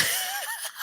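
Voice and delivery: squeaky disbelieving laugh; high laugh. Real, not acted. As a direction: burst into a high incredulous laugh.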